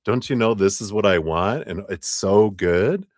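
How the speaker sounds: anxious partner baffled at the avoidant; exasperated. Retold or imitated. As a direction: demand what's wrong, half laughing. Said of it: "anxious attacher is like".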